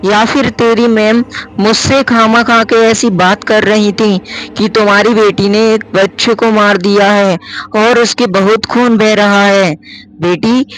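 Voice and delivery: fretting mother pressing for the truth. Acted.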